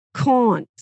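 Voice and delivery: "caunt" with a broad back vowel, Boston style. Shown as a demonstration. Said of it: "it's way back in the nasal".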